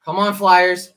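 shouting at the team on TV; loud cheer. Real, not acted. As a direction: yell it at the screen. Cheering at the hockey game.

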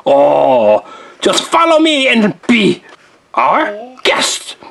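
lightly voiced courtly candlestick; a hint of a smooth, flattering servant; Luminaire. Luminaire flattering Belle and Elsa, gently courtly voice. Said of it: "Thank you, Luminaire".

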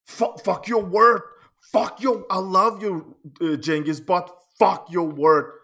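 loud, punched repeat of the insult; indignant retold shout, not a full scream; heated quote. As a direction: bark the friend's words back at him. Retelling friend's insult, heated.

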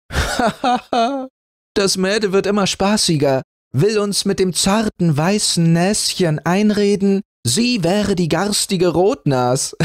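put-on parents chuckling at a silly child; laughing parents. A narrator's reading. Parents laughing off their daughter's claim, amused. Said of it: "Aber die Eltern lachten".

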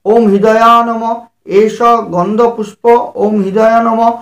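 measured, chanted Sanskrit offering formula; lightly chanted puja mantra; mantra recitation. Acted. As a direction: intone each offering like a priest.

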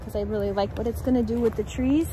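shivering in the cold; cold, chattering through the words. Real, not acted. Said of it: "my fingers are fumbling in this cold".

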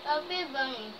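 talking through a mouthful of marshmallows; mouth full. Real, not acted. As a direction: barely get the words out. Chubby bunny marshmallow challenge.

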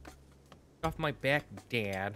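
slow, drawn-out mock protest; mock retort. Teasing the chat with a slow mock complaint. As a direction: stretch it out, teasing back.

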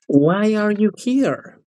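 slow teacher model; slow demonstration. Shown as a demonstration. Teacher models the question for Carolina, slowly. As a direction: draw out "Why are you here?" slowly, word by word.

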